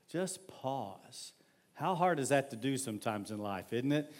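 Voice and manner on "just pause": hushed, softer words after the sigh; soft demo pause. Shown as a demonstration. Pastor demonstrating a pause to the church, hushed. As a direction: say it gently, as if settling down. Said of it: "Watch me".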